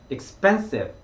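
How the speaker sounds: expensive with the stress on the second syllable, spen. Shown as a demonstration. Teacher models expensive with the middle syllable stressed. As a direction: lean on spen in expensive, drawn out. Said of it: "스펜에 좀 더 강조를".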